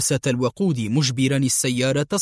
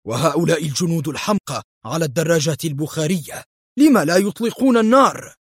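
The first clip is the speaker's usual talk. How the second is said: angry; 2 semitones higher than usual. Acted. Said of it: "وقال في غضب".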